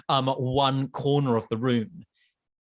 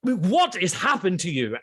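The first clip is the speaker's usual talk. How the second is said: stern ghost; 4 semitones higher than usual. Acted. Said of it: "this ghost says".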